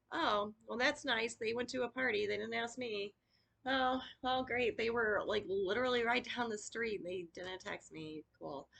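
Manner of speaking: mock-bright sarcasm turning sour; sarcastic hurt. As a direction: pretend not to care while stung. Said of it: "I'm like".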